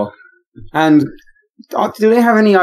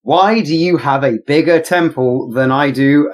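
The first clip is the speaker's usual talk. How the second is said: booming arrogant alien overlord; slower than usual. Acted. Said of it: "in a loud, booming voice, he angrily proclaims".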